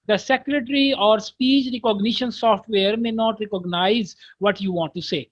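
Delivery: very slow, careful reading aloud of an English text; slow textbook reading. Shown as a demonstration. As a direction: read each English word out slowly for the class. Reads English text slowly. (धीमी, साफ़ अंग्रेज़ी पाठ वाचन)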